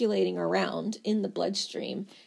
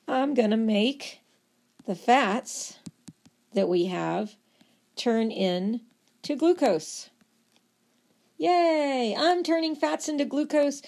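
cheerful liver; 3 semitones higher than usual. Acted. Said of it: "The liver goes".

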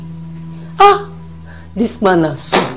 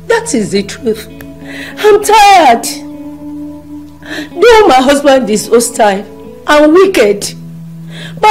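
anguished cry; 4 semitones higher than usual. Acted. Pleading in prayer.

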